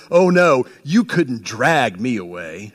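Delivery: a hint of a stubborn cop refusing to leave; quoting Officer Powell. Pastor quoting Powell's defiant line to his superiors, low and slow. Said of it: "he says".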